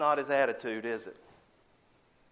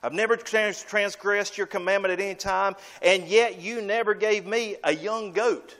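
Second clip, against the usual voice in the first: a lightly voiced, higher proud complaint; boastful brother; 5 semitones higher than usual. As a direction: brag about your loyalty with a hint of grievance. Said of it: "it's the boast he makes".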